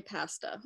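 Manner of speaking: "pasta" with short a, as in cat; Canadian pronunciation. Real, not acted. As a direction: say "pasta" as PASS-ta. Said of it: "what side of the fence".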